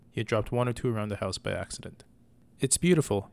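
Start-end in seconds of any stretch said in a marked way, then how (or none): 2.6-3.3 higher, louder, full of wonder; excited boy. Acted. Boy gushing to his mother about the stone. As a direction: gush over it like a delighted child.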